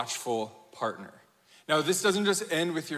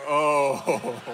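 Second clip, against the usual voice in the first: mock-outraged oh, trailing off; long groaned oh dissolving away; exaggerated offended groan; loud wounded "oh"; 3 semitones lower, 4 dB louder than usual. Dad's reaction to being called little man.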